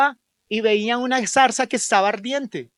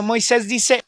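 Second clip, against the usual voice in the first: ordinary delivery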